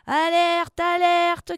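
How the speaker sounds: high, loud alarm call; alarmed shout. A narrator's reading. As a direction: sound the alert to the crew. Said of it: "crie Enzo". (cri d'alerte)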